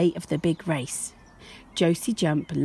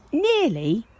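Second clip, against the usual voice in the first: parents' gentle answer; 7 semitones higher than usual. Acted.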